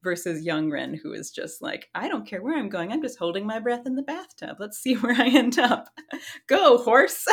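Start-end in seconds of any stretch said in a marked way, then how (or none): 1.9-7.2 put-on excited kid. Young self plunging into trance.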